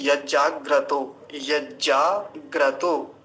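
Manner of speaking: slow, syllable-by-syllable यज्जाग्रतो; careful pronunciation. Shown as a demonstration. Teacher showing students a mantra word, careful pronunciation. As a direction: hold the जा in यज्जाग्रतो, both ज sounded. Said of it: "इसका उच्चारण किए देता हूँ".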